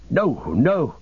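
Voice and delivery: high-pitched cry of refusal; frantic refusal; alarmed cry. Acted. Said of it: "cried Frodo".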